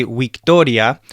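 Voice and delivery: VICTORIA said "wik-TOR-ia"; Latin V as W. Shown as a demonstration. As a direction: open victoria on a w sound. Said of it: "So in Latin, you would say".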